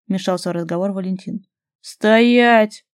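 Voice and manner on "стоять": sharp, loud command to stop; loud shout. A narrator's reading. Two voices shout at the fleeing guy to stop. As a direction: bark it to freeze him in place. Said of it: "Громкий оклик двух голосов".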